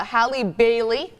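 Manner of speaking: slow, deliberate enunciation; careful slow name. Real, not acted. Host naming the actress who plays Ariel, slowly. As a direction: take the name slowly, syllable by syllable. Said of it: "I always try to say that slowly".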